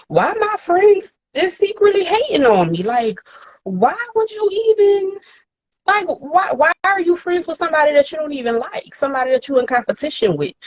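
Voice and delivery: anguished questions. Retold or imitated. Crying rant in the car.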